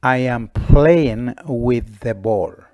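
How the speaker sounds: put-on boy calling back with the ball in his hand; loud slow answer. Boy answers the girl, loud and slow. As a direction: answer slowly and loudly across the playground.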